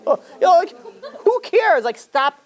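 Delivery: exasperated. Real, not acted. Fed up with roasting on television, a high exasperated plea. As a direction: throw up your hands, who cares.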